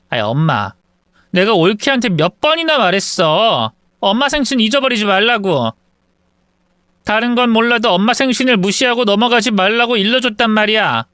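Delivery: fast, rising indignant complaint; complaining daughter. Acted. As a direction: pour out the grievance to mom. (엄마에게 억울하게 하소연하는 딸)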